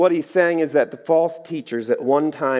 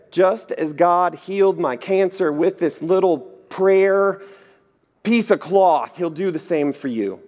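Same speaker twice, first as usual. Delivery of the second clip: slightly higher, slow preachy healer claim; mock faith healer; 5 semitones higher than usual. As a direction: lightly ham up the healer's pitch. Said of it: "This guy said".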